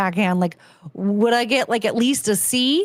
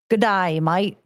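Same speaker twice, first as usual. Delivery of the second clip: attempted Australian accent. Shown as a demonstration. Trying out Australian accent phrases.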